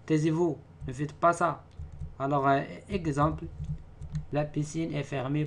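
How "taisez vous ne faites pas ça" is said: loud, higher, scolding a class; stern order. Shown as a demonstration. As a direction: tell the pupils off. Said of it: "phrase impérative". (ordre sévère, plus fort)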